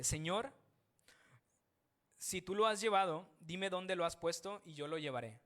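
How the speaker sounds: Mary pleading anxiously with the man she takes for the gardener; distraught plea. Retold or imitated. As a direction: beg urgently, as if desperate to find him. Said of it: "María estaba consternada en ese momento".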